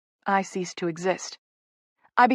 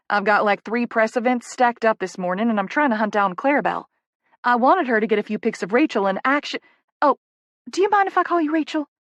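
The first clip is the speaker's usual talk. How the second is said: flustered Southern publicist; 3 semitones higher than usual. Acted. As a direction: ramble busily, then interrupt yourself. Flustered Poppy rattles on.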